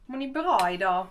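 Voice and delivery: put-on a light Skåne accent on "bra"; mildly put-on Skåne accent, stressing "bra". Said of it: "in this dialect".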